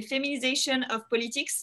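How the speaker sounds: English name said with a heavy French accent. Real, not acted. Host naming the project in French-accented English. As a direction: read the English title the French way, self-mocking. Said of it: "mon super, euh, accent anglais".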